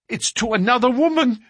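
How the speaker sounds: put-on jealous young woman crying out. A narrator's reading. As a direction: fling the accusation. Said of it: "she cried".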